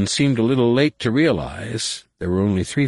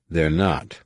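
significantly. A narrator's reading. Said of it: "Luke said significantly".

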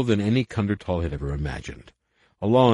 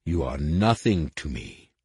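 hissed; 4 semitones lower than usual. Acted. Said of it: "hissed the voice of the impersonator".

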